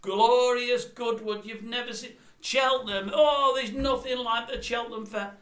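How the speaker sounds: mock-rapturous TV presenter voice; mock gushing presenter. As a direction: gush slowly over it, mocking the presenter. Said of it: "He says the same things every programme".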